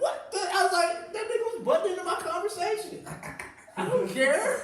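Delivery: high, loud, laughing outrage; indignant laughing rant. Retold or imitated. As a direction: squeal it out in disbelief. Retelling his indignant reply, laughing.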